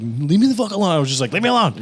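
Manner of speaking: high, exasperated mock protest; retold exasperation. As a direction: fend off a nagging friend, pitched high. Retold refusal to pestering friend.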